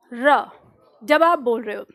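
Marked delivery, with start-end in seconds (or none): 0.1-0.4 र with the tongue curling back off the gums; demo r sound. Shown as a demonstration. Teacher showing students how to say र. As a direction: say र as a crisp single rolled r. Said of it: "र का उच्चारण आप करके देखो".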